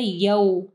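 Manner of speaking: यौ as a gliding "yau"; यौ said "ya-oo" in one glide; madd leen. Shown as a demonstration. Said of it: "मद लीन आ रही है".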